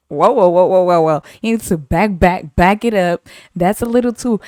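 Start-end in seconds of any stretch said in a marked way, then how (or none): 0.1-3.3 mock alarm. Fending off a pushy customer.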